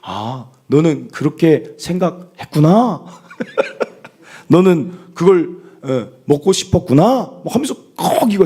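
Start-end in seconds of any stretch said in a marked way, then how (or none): 0.0-3.0 playful imitation of a counsellor's empathy; slow, drawn-out words with a lifted ending; 오은영 박사. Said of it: "뒤에를 꼭 올리는 그 말투가 있어요". 4.5-7.4 playful counsellor imitation, slowly stretched; 오은영 박사. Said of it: "뒤에를 꼭 올리는 그 말투가 있어요".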